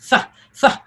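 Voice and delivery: th hissed between the teeth; th sound. Shown as a demonstration. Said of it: "it's T H".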